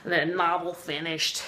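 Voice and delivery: put-on light Russian accent, slowing on the last words; a hint of a Russian accent. Tolstoy telling his friend his plan, in a light Russian accent. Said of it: "speak in English with a Russian accent".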